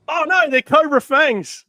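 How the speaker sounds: high, loud comic cry of alarm; slow falsetto woman's voice, hammed-up; Dana impersonation. Dana spotting Cobra Fangs, in high mock alarm. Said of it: "my Dana impersonation".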